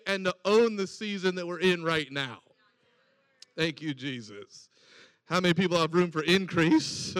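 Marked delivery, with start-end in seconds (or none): 3.6-4.7 low soft murmured thanks; murmured aside. Real, not acted. Preacher murmuring thanks to Jesus mid-sermon, low and soft. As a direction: breathe it under your breath.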